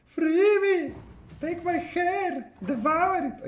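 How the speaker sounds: very high, loud theatrical wail; hammed-up dark god cry. Streamer hams up a monster demanding her hair, very high and loud. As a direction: howl it like a monster demanding an offering.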